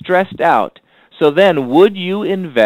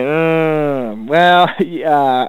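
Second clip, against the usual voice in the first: imitating a friend's unsure, stalling yes; a hint of an awkward friend hedging with a laugh; hesitant stammer; much slower than usual. Coach imitates a doubtful friend, mild hesitant stammer. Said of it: "stammering a little bit or whatever".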